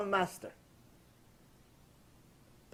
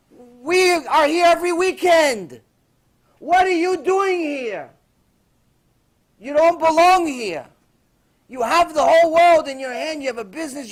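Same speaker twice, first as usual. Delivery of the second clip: insistent gangster; 5 semitones higher, 8 dB louder than usual. Retold or imitated. Gangster insisting he doesn't belong.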